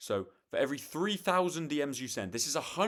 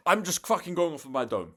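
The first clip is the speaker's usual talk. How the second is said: loud laughing aside; 7 semitones higher, 8 dB louder than usual. Real, not acted. Laughing aside mid pitch.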